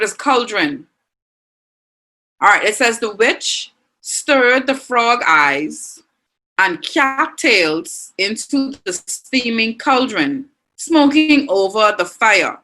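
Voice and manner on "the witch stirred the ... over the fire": slow storybook read. Shown as a demonstration. Teacher reads witch example sentence.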